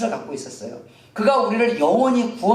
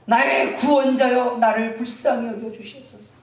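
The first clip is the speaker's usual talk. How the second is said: pleading call, building higher in pitch; crying out; 5 semitones higher than usual. Acted. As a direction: implore a saviour to notice you. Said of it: "이 마음으로 막 외칩니다".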